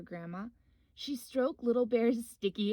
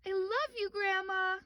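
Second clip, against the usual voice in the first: high, slightly raised call; yelled; 9 semitones higher than usual. Acted. Little Bear calling to Grandma, high happy call. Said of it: "Little Bear yelled".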